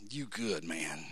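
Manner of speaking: low, soft and smug; a low, soft aside of self-approval; quiet self-pat. Pretend. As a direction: murmur it to yourself like a pat on the back. Quiet self-congratulation quote.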